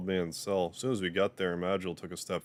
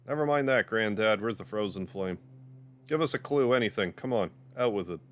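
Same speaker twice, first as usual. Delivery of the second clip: urgent demand; 2 semitones higher than usual. Acted. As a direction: push him hard for an answer. Kidd pressing old man urgently.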